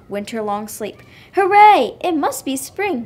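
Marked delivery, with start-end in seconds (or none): 1.3-3.1 high, loud burst on the first word; excited cry. A narrator's reading. Little Bear waking to what seems spring, excited cry. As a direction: cheer it out with excitement. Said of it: "he cried excitedly".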